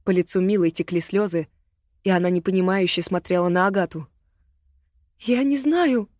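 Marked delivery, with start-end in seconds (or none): 5.2-6.1 hoarse sob. Acted. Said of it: "прохрипела она, всхлипывая".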